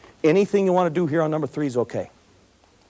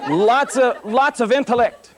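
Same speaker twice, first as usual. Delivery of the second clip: chuckling through the words; amused, a laugh breaking in; 5 semitones higher, slower than usual. Real, not acted. Teaching teens, chuckling at the cop who moved. Mocking the traffic study story.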